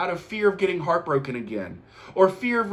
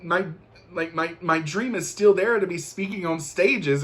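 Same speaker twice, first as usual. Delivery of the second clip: excited realization; 3 semitones higher than usual. Retold or imitated. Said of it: "I was like".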